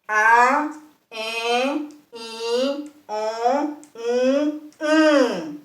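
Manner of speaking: cada vocal nasal por la nariz; vocales nasales. Shown as a demonstration. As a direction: pronuncia las vocales nasales aisladas. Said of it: "Luego tenemos". (vocales nasales, el sonido sale por la nariz)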